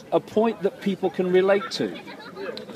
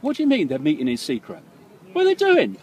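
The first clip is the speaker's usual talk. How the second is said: incredulous; 4 semitones higher than usual. Retold or imitated. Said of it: "It's like".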